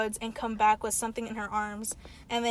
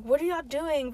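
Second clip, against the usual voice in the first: higher-pitched mock scolding, trailing into filler; retold confrontation; 4 semitones higher than usual. Friend retells her confronting the praying kids, mock scolding. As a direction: imitate her demanding an explanation.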